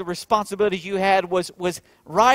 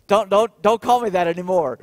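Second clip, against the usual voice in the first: teasing protest; 3 semitones higher, 7 dB louder than usual. Retold or imitated. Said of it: "she's teasing".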